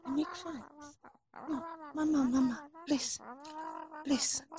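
put-on insistent son, Russian accent; fake Russian accent. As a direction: argue with mama in Russian accent. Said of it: "fake Russian spy".

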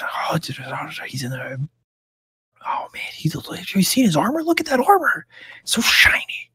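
put-on excited kids stage-whispering; hushed gushing over armor. Stable boys whisper about the dragonborn, stage whisper. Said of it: "that same kind of stage whisper".

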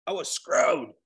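mock British "I was screwed", breathy and light; British accent. Shown as a demonstration. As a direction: put on a Brit voice for "I was screwed". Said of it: "Gotta say it like a Brit".

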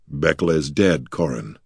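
grief-choked, dropping away at the end; hoarse. Acted. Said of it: "he said hoarsely".

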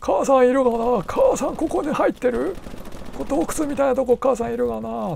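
high-pitched, softened mimic voice; Hiraizumi Sei impression. Man searching a cave for mother, high soft impression. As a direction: call for mother in a high put-on voice. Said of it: "ちょっと真似してたんですよね".

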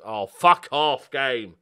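loud, slow angry groan; real exasperated outburst; frustrated curse. Real, not acted. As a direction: let the game have it. Late equaliser frustration.

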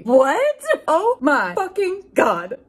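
high, loud squeal of a scream; mock scream. A narrator's reading. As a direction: shriek it like a starstruck fan. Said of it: "I screamed".

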